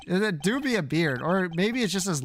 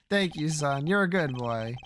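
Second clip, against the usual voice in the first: put-on a touch lower, gentle old dad; lightly voiced fond father; 3 semitones lower than usual. Old man thanking his son for the handkerchief, lightly voiced fondness. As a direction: let it slow toward the end, mildly tender.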